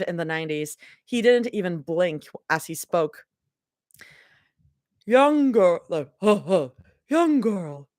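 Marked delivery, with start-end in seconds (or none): 5.1-7.9 put-on flat monotone old man. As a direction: drone it like a game NPC. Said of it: "he said in a monotone voice".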